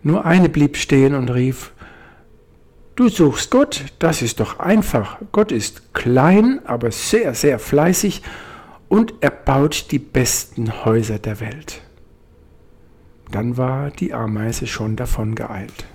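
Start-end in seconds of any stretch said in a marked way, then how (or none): 2.9-11.8 a tiny ant, bursting with its easy answer; busy little ant. Acted.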